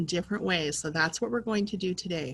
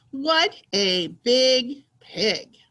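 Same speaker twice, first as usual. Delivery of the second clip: slow, loud excited exclamation; excited reading; 5 dB louder, much slower than usual. Shown as a demonstration. Teacher reading about the pig for pupils, excited. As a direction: punch each word out slowly. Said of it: "say it in an excited way".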